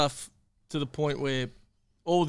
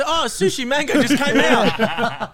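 voicing the kid; 6 semitones higher, 5 dB louder, slower than usual.

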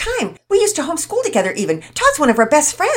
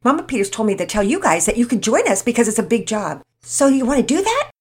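put-on quick, loud girl chatter, words tumbling out; talking fast; 6 semitones higher, 9 dB louder, faster than usual. Penelope inviting the boys to bake cookies, fast and loud. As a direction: rattle it off breathlessly. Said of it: "you talk so fast".

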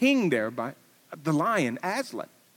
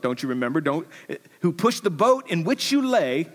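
building fervour; 5 semitones higher, 5 dB louder than usual. Acted. Preacher building to climax.

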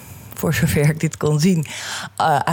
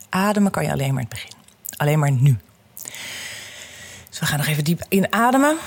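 calm guiding voice, unhurried; guided meditation. Acted. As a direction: lead them gently through breathing. Guided breathing exercise.

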